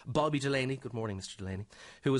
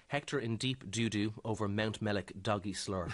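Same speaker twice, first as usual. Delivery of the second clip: reads the headline slowly, breaking into laughter; can't keep a straight face through the headline; laughing while reading; 4 semitones lower, slower than usual. Real, not acted.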